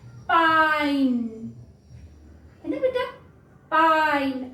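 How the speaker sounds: "पाइन" said slowly with the long I sound; slow phonics example. Shown as a demonstration. Mother teacher modelling "पाइन" for kids, slow. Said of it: "आई का long sound क्या होता है".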